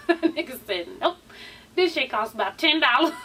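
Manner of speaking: quoting through laughter; laughing. Real, not acted. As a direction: laugh the words out.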